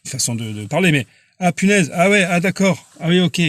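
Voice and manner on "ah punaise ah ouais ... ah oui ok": mild mock dawning surprise; mock realization. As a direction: act out the sinner catching on too late. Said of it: "je dis ça comme ça, c'est une façon de parler".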